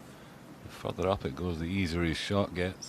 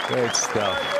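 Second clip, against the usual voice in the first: excited; 4 semitones higher, 8 dB louder than usual. Real, not acted. Repeated praise after shot.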